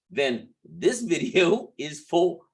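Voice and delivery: talking through a stiff face mask; words stiff from a drying mask. Real, not acted. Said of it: "oh, my, my mask is cracking".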